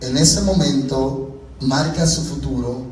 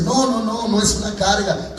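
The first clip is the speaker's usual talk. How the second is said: higher, quick dismissive objection; acted protest; 4 semitones higher, 3 dB quieter than usual. Some church members objecting that it is no burden, in mock protest. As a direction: brush the idea away in a raised pitch.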